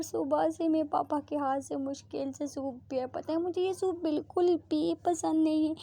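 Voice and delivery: put-on dramatic girlfriend refusing soup; whiny refusal. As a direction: whine like a fussy child about soup. Preeta whining about hated soup.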